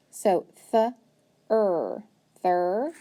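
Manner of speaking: th-er split, then thir joined; teacher blending the first syllable; sounding out a syllable. Shown as a demonstration. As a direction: pull the syllable apart then join it. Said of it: "my first syllable".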